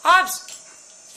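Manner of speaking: startled shout of a name; startled yelp. Real, not acted. Startled by dog.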